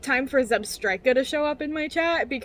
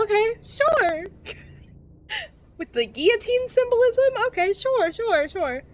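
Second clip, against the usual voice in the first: sarcastic; 9 semitones higher than usual. Real, not acted. Sarcastic agreement while laughing.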